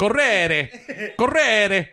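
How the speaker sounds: hammed-up Italian, pitched high; theatrical Italian accent; mock Italian accent. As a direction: laughingly overdo the Italian with rolled R. Hammed-up Italian during word quiz.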